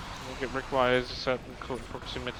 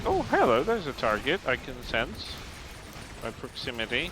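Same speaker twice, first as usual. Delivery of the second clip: mock ship voice. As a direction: play the ship sensing a target, cheery and bright. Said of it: "it's just like".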